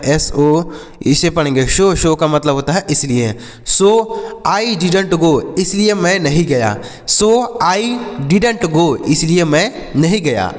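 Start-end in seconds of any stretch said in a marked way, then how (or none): 3.7-5.6 slow model reading. Shown as a demonstration. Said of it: "ऐसे बोल सकते हैं". 7.1-9.0 very slow, word by word; slow model reading. Shown as a demonstration. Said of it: "ऐसे बोल सकते हैं".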